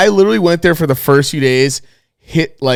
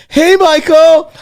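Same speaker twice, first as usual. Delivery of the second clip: high, slow sing-song call of a name; imitating mom; 7 dB louder, much slower than usual. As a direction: mimic mom calling out across the class, high and drawn out. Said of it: "My mom goes".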